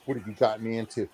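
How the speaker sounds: low, soft retold grumble; eye-rolling exasperation. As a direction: imitate a weary, exasperated buddy. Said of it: "rolling his eyes".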